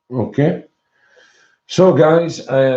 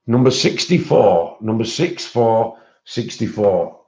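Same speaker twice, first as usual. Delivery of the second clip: bingo caller. Acted. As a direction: call the number like bingo. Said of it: "I feel like a bingo caller".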